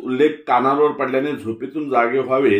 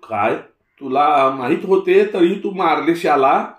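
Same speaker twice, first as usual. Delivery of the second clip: put-on astonished old Tatya; 5 semitones higher, 4 dB louder, slower than usual.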